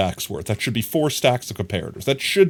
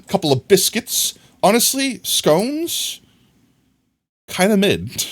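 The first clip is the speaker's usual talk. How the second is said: high mock voice; 10 semitones higher, slower than usual. Mock British voice for scones.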